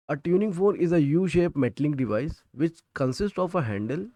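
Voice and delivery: reading the textbook line word by word, slowly; slow, deliberate dictation for students to copy. Shown as a demonstration. Teacher dictating a textbook definition to students, slowly.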